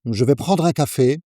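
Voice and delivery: native French order, smooth and even; relaxed café French; French pronunciation. Shown as a demonstration. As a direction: say it the way a Parisian orders. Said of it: "That's how people actually order in France".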